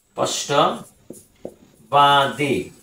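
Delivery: স্পষ্টবাদী stretched out very slowly; dictating স্পষ্টবাদী to students; very slow dictation. Shown as a demonstration. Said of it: "teacher repeats word very slowly".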